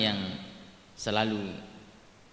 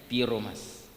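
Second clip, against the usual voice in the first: put-on Javanese accent; 4 semitones lower, slower than usual. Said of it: "logatnya selalu ro".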